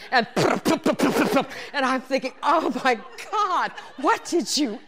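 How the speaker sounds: loud laughing through the words; can barely talk for laughing. Real, not acted. Telling the audience about the gas, laughing loudly.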